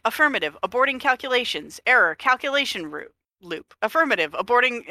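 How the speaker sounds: looping robot voice, stuck on words; a broken AI repeating itself; glitching robot. Retold or imitated. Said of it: "she's like".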